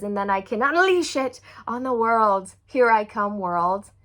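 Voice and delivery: loud, proud creator voice; empowered declaration. Retold or imitated. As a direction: declare it like a manifesto.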